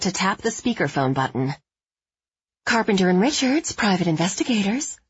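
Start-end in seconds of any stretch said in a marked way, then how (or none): 2.7-5.0 breathy, higher secretary voice; film noir secretary. Acted. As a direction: put on a breathy old-movie receptionist. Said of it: "imitating the breathy voice of a film noir secretary".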